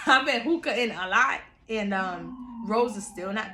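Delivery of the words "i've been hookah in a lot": says it again through a laugh; laughing repeat. Real, not acted. Repeating the friend's odd phrase to her listeners, laughing. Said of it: "I'm gonna say it".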